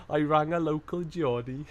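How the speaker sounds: botched Geordie with a Welsh sing-song; Geordie sliding into Welsh. Acted. Streamer mocking own failed attempt, Geordie turned Welsh. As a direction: aim for Geordie, tip over into Welsh. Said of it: "stop myself going just into Wales".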